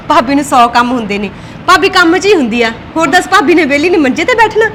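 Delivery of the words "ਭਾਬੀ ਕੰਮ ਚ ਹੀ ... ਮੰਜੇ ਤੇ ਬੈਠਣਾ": sarcastic retort. Acted. Snapping at sister-in-law.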